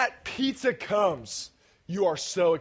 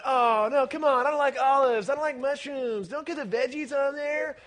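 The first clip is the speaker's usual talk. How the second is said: higher-pitched mock complaining; kids' protest; 4 semitones higher than usual. Speaker imitating kids who dislike supreme pizza, mock protest. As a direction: imitate picky kids protesting their toppings. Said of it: "you guys are going".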